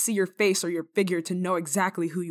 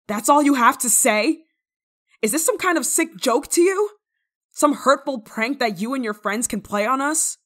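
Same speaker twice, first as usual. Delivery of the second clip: loud, higher, indignant questioning; louder, higher outraged questions; indignant anger; 5 semitones higher, 7 dB louder than usual. Acted. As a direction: demand an answer, offended and loud. Angry at the intruder's apology.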